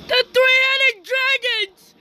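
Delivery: slow, loud, high dramatic call; dramatic announcement. Real, not acted. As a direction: announce it like a movie trailer. Kids playing Godzilla game, dramatic.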